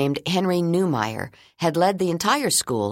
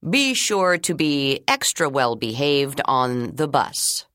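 reminding; slower than usual. Acted. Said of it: "Mister Leroy reminded them".

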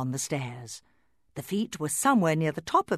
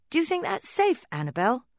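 put-on wary little doll boy; 12 semitones higher, 3 dB louder than usual. Bobby doll speaks.

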